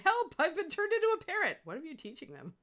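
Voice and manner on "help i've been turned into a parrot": very high, loud squawking parrot cry. Retold or imitated. Parrot taught a joke line, squawking cry. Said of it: "teach your parrot to say".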